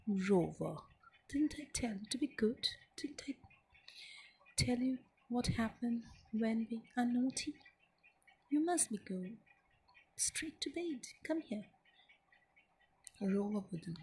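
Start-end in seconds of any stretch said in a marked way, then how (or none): 0.1-11.7 understated storybook scolding; mild anger. Acted. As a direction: tell off the naughty dog like a cross little boy. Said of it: "stared at Rover in anger".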